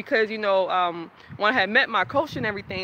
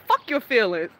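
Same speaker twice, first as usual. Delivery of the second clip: dismissive partner; 2 semitones higher, 4 dB louder than usual. Retold or imitated. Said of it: "she would constantly tell me".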